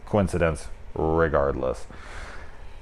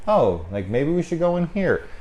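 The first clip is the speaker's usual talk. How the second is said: mock blasé; 9 semitones higher than usual. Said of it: "he's just being so, like, blasé".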